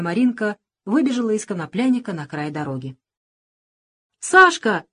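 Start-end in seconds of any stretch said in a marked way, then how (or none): 4.2-4.8 put-on thin high child's call; little girl's thin voice. A narrator's reading. Little girl calls her friend, thin high voice. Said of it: "крикнула она опять".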